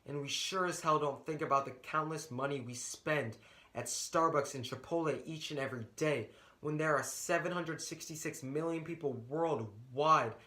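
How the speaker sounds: measured, rhythmic spoken-word delivery with building intensity; spoken-word poem, rising to a passionate close; slam poem performance. Acted. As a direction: perform it like a slam poet on stage. Student performs his slam poem.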